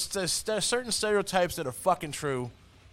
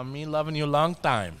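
put-on slowed caricature Asian accent; mock Asian accent; slower than usual. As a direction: draw it out in a joke Asian accent. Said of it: "doing the Asian accent".

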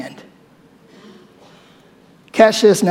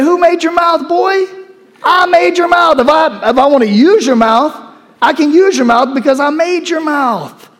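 booming God; 8 semitones higher than usual. Acted. God rebuking Moses for doubting his mouth, emphatic. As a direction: put the boy firmly in his place.

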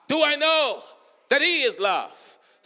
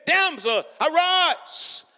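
put-on Jesus calling the dead girl to rise; commanding call; 4 semitones higher, slower than usual. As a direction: raise her up with the call. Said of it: "he said".

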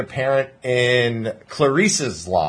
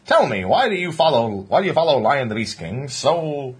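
chirpy interviewer voice, pitched up; reporter voice; 3 semitones higher than usual. Pretend. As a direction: play a cheesy local news reporter. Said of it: "put on your reporter voice".

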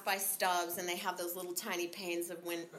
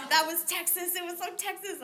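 mock Norwegian quip; 8 semitones higher, 5 dB louder than usual. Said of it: "they say".

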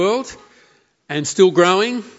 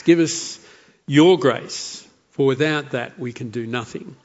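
prayer. Acted. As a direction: pray humbly, letting the amen sink away. Closing prayer after the reading.

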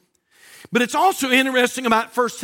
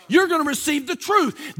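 emphatic repeat; 4 semitones higher than usual. Real, not acted. Pastor pressing the promise on his congregation, emphatic. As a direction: drive it home, raise the voice on it.

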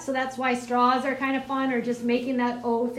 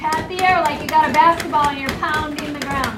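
calling out; 6 dB louder than usual. Real, not acted. Calling cues over class.

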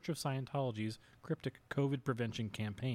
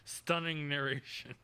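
laughing; 2 semitones higher than usual. Real, not acted. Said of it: "I can't stop laughing".

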